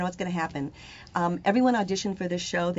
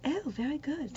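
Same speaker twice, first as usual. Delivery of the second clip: put-on playful British accent; 6 semitones higher, 6 dB quieter than usual. Replies mimicking the British accent.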